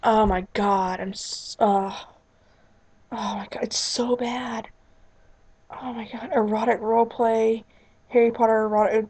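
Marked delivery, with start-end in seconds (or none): 3.2-6.3 whisper. Real, not acted. Shocked at a card combo.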